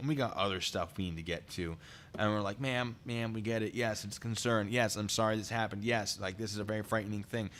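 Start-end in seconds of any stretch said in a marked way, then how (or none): none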